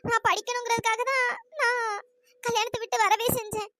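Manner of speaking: near tears, pleading innocence; tearful plea. Acted. Niece pleading with her aunt through tears. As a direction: voice cracking with a sob.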